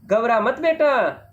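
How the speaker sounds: put-on letter box comforts the girl, slowly; reassuring letter box. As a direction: soothe the scared child. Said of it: "बच्ची के पास जाकर कहता है".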